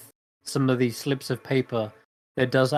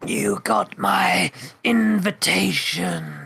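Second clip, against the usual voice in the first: dry, papery, hollow rasp, pitched up; 7 semitones higher, 3 dB louder than usual. Narrating the scene, the speaker voices her as she finally turns and speaks: raspy, hollow voice. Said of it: "It is raspy".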